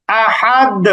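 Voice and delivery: "আহাদ" with a released, echoing d; bouncing qalqalah. Shown as a demonstration. Teacher gives a practice word, bouncing qalqalah. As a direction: push off the final d of "আহাদ". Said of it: "কলকলা হবে আহাদ".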